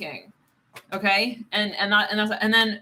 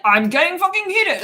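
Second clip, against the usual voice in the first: mock heated outburst; 7 semitones higher, 7 dB louder than usual. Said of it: "someone's like".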